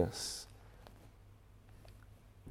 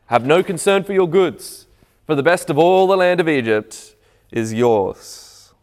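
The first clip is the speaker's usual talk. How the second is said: Pharaoh's command; 4 semitones higher, 4 dB louder than usual. Retold or imitated. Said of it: "And Pharaoh said to Joseph".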